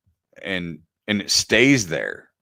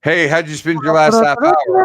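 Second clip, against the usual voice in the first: louder, higher coach voice; pretend drill coach; 6 semitones higher, 6 dB louder than usual. Imagining a coach calling him each morning, louder bark. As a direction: bark it like a pushy life coach.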